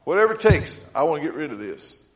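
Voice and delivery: fervent, pleading prayer; fervent plea. Retold or imitated. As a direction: cry out "Whatever it takes" in earnest. Retold prayer to God.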